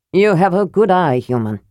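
a proud dwarf lord sizing up a stranger; mildly gruff dwarf voice; lightly voiced proud dwarf lord.

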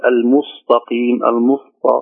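المستقيم drifting towards "mustaqeem" with emphatic S and T; over-heavy s and t. Shown as a demonstration. Teacher imitating some reciters, المستقيم wrongly emphatic. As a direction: thicken the س and ت of المستقيم into ص and ط. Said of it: "السين قريبة من الصاد".

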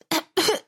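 choking cough. Acted. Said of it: "чуть не подавилась".

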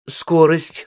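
high, slowed, pressing question; persistent, pointed questioning; insistent. A narrator's reading. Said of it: "настаивал Римма".

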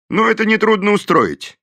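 an easygoing lawman who takes charge; confident sheriff, pitched high. A narrator's reading. Sheriff voiced in the story.

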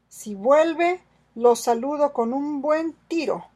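high, loud threat; exclaiming. Acted. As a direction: exclaim it, daring him to come back. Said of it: "exclamó Sandokan".

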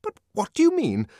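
high, loud, defensive; indignant nurse. A narrator's reading. Head nurse defending the conditioning, loud and indignant. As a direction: lecture him sharply.

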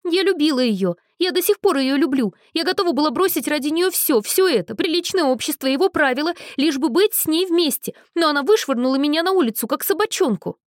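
high, loud, weeping lament; tearful outburst. Acted. Jilted girl cries out to Cordelia, high and weeping. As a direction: pour out heartbreak in sobs.

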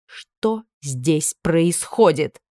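stern slow demand. Acted. Mistress demands answer.

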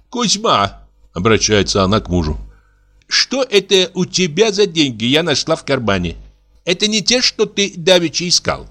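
a wife catching her husband out; lightly voiced wife. Wife asks husband Kuzma about found money, lightly voiced.

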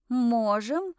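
brief, assured answer with a lift at the end; declaring. A narrator's reading. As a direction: declare it readily to the panel. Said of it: "заявила я комиссии".

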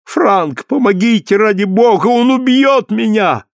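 panicked plea. A narrator's reading. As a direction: beg for your life. Woman begs for rescue. (Люсиль в ужасе умоляет Франка спасти её)

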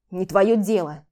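loud curt bark. Acted. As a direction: bark it at her. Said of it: "рявкнул". (громко рявкнуть)

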